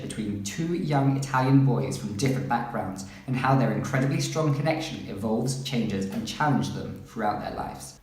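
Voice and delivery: measured synopsis reading; book blurb read-aloud. Real, not acted. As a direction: read out the back-cover blurb.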